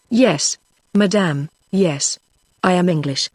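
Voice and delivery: slow, lightly voiced French accent on Yes, madame; an Englishman faking a strong French accent, slowly. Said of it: "in his former strong foreign accent".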